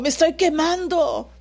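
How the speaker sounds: imitated cry for help. Preacher acting out someone burning, high imitated cry. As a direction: call out as if on fire, half-hearted. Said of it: "hasta gritan".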